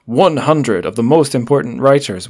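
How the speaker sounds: big, loud announcer-like bold type; bold text voice. Shown as a demonstration. Podcast host reading bold blurb text aloud, bold text voice. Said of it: "I'll do my bold text voice".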